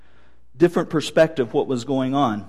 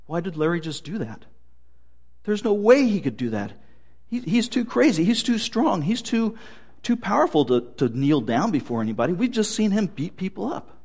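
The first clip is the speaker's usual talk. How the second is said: a touch of hammed-up astonishment, gawking at the scene; herders' surprise; 3 semitones higher, 4 dB quieter than usual. Pig herders watching Larry kneel before Jesus, mild mock surprise. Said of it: "the surprise of the pig herders".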